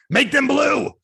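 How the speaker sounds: loud, high-pitched order; hammed-up bossy shout; mock command. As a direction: shout an absurd demand. Acted impossible order to someone.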